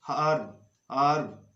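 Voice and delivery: हर्ब ending up as "urb", h dropped; silent h. Shown as a demonstration. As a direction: say हर्ब without its h. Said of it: "एच silent होता है".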